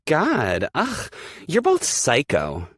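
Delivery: high, loud, slow outburst of disgust; disgusted shout. Acted. Aspen shouting at the couple before storming off. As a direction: yell it as you storm off. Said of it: "Aspen shouts".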